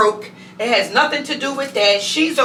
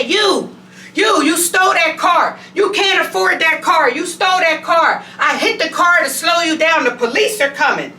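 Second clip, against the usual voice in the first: hammed-up shouting accusation; mock accusing old lady; 6 semitones higher than usual. Elderly woman accusing her.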